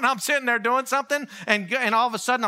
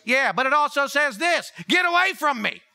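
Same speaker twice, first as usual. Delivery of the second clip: mock sharp rebuke, pitched up and rising to a yell; retold rebuke; 6 semitones higher than usual. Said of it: "And Jesus goes".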